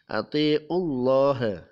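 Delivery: Atiullah slow, with a thick, heavy Allah; tafkhim recitation. Shown as a demonstration. Tajwid teacher showing Atiullah with a heavy Allah. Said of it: "Atiullah dibaca tebal atau tafkhim".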